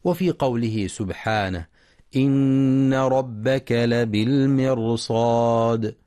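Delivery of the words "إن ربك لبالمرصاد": Quran recitation. Shown as a demonstration. Quran recitation, tajweed chant.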